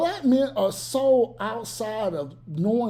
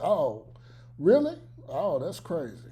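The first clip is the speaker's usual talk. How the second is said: feigned interest; 4 semitones lower, 3 dB quieter than usual. Retold or imitated.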